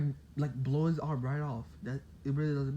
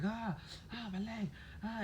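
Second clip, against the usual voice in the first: mock pained cry; 7 semitones higher, 9 dB quieter than usual. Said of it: "he's screaming".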